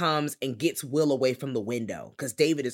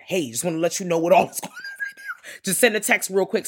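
whispering; 5 semitones higher, 4 dB louder than usual. Retold or imitated. Secretly texting at the party.

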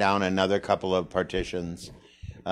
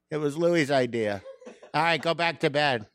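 chuckling, higher retelling; amused family quotes; laughing while quoting; 7 semitones higher than usual. Retold or imitated. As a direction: quote both voices through a laugh. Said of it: "My brother comes down".

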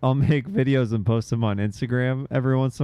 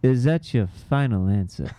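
Regis revenge line; 6 semitones lower than usual. Retold or imitated. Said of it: "and he just goes".

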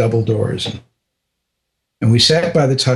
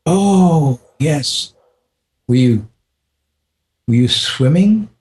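lightly higher, mock-innocent questions; teasing; 3 semitones higher than usual. Guru teasing the American about his absence, playful. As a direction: poke fun with each question. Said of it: "he started teasing me".

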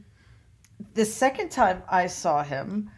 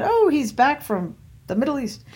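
higher-pitched mock gushing; imitated delighted greeting; 6 semitones higher than usual. Cousin announces his return at dinner, mock delight. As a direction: act out her delighted announcement. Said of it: "clapped her hands together and said".

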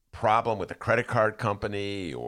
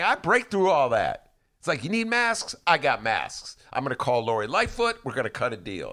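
imitating Sean Penn; 3 semitones higher than usual. Host paraphrasing Sean Penn to cohost, cocky and high. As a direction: brag like a fixer who gets it done. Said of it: "And so Sean Penn is saying".

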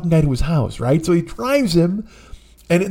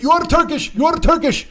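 put-on high-pitched screaming in Armenian accent; screamed accusation; 14 semitones higher than usual. Drunk passenger screaming at his Uber driver, accented scream. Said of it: "he starts screaming at".

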